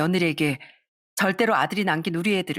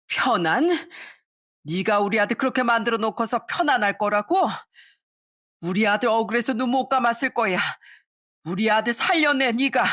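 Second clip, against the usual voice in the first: raised, accusing grief; grieving fury; 4 semitones higher than usual. Acted. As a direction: demand her son back. (며느리를 탓하는 시어머니의 분노)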